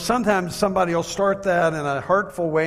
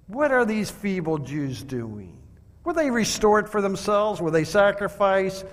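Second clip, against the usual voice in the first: mildly mocking taunt rising higher; 4 semitones higher than usual. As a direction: sneer at them lightly.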